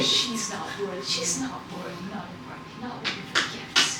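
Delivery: soft, hushed fairy chorus; pixie voice. Acted. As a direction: whisper it like a pixie. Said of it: "You just hear".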